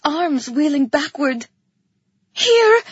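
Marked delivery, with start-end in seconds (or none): 2.3-2.8 high, loud desperate yell; shrieked call, pitched way up; urgent yell. A narrator's reading. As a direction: yell out to someone about to fall. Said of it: "I yelled".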